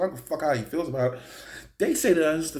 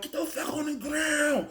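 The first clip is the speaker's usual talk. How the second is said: mock police shout pitched higher; cop yelling an order; 11 semitones higher than usual. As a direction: bark it like a cop jumping out of the car. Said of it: "They screaming and shit".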